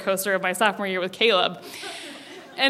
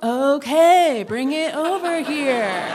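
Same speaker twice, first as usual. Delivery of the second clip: higher, drawn-out singsong okay; exaggerated oblivious reply; 3 semitones higher, much slower than usual. Girl missing the joke answers classmate, slow and overemphatic. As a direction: stretch each word out, cluelessly agreeable.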